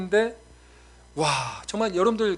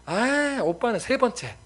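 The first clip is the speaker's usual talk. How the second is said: put-on shocked parent and child; 8 semitones higher, slower than usual. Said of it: "너무 또 충격받아서".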